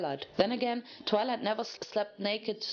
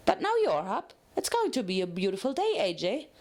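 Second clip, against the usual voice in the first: chirpy Pinkie. Acted. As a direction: greet the day brightly.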